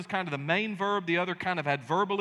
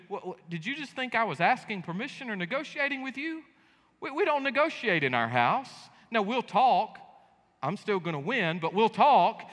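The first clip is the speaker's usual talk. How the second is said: stern dad; 4 semitones higher than usual. Retold or imitated. Father telling the kids the house doesn't negotiate. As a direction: lay down the law to the kids. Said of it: "we'll say something".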